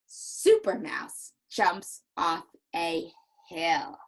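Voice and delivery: slow, mildly happy reading; understated storybook excitement; excited and happy. Shown as a demonstration. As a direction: pace it out word by word with light cheer. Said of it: "I have to use an excited and happy voice".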